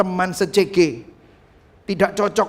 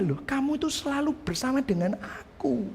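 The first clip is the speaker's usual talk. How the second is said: father's reply, much softer; gentle father; 6 semitones higher, 9 dB quieter than usual. Acted. Father reassuring his elder son, soft and tender. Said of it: "Terus papanya".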